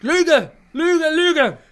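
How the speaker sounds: high, loud indignant cry of lies; shrill shouted protest; angry denial. Acted. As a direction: shout her down, furious. Shrieking denial.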